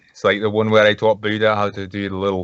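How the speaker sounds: put-on Scottish accent. Shown as a demonstration. Showing the co-host his own Scottish accent. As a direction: show off your Scottish accent. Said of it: "my Scottish accent, then".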